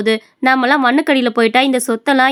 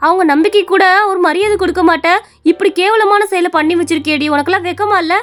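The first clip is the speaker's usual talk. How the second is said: angry scolding; 4 semitones higher than usual. Acted. Daughter-in-law scolded over sold property.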